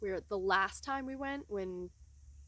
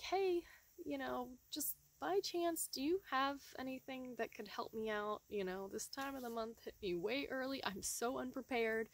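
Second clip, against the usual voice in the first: higher, soft, sheepish ask for help; sheepish request; 4 semitones higher, 3 dB quieter than usual. Retold or imitated. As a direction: timidly ask a stranger for a favor. Asking a girl for help.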